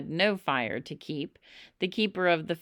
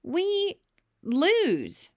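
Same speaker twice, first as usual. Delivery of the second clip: urgent plea; 12 semitones higher, much slower than usual. A narrator's reading. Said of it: "I cried".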